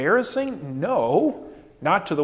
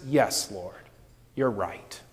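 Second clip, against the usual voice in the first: lower, much softer, bowed yes; humble admission; 9 semitones lower, 7 dB quieter, slower than usual. Retold or imitated. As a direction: concede it quietly and humbly. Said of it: "She says".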